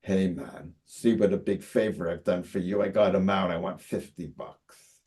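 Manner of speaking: a hint of a man demanding payment; orderly. Orderly asking fifty bucks for a favor, lightly voiced. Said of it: "He says".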